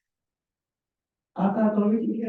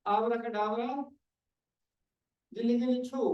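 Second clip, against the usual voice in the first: put-on kids party magician; 3 semitones higher than usual. Shown as a demonstration. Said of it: "जो मैं मंत्र बोलता हूँ".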